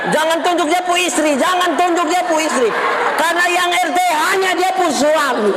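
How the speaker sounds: high, sustained sermon shout; full-force preaching. Real, not acted. Pastor exhorting the neighbourhood head about marriage, full-force preaching. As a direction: preach it out, stretching the phrases.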